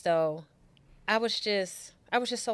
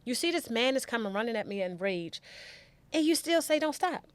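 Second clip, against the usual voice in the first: high, desperate pleading, pitch way up; frantic high pleading; 6 semitones higher than usual. Retold or imitated. Pleading with the driver not to stop, high and frantic. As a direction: beg the driver not to stop, near panic. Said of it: "kept screaming at him".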